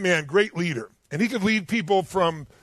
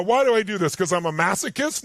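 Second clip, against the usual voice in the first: ordinary delivery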